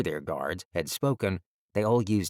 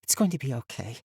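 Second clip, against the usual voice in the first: reassuring; 5 semitones higher, faster than usual. A narrator's reading. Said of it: "as much to herself as the boy".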